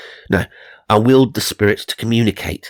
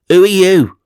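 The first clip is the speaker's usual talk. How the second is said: much louder, higher demand; loud, high challenge; 11 semitones higher, 8 dB louder than usual. Acted. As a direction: call out to the ghost in alarm. Psychic confronts the ghost.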